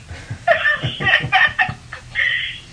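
airy squeal of a laugh; breathless high laugh. Real, not acted. Laughing to the interviewer about meeting the star. Laughing at her own disbelief.

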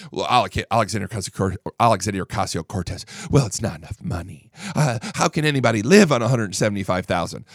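lightly voiced sulky lawmaker; mocking Ocasio-Cortez. Host mocking a congresswoman's pay complaint, mild mock whine. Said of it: "And they're like".

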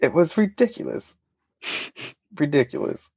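high, laughing indignation; playfully offended disbelief. Real, not acted. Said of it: "you sound so offended".

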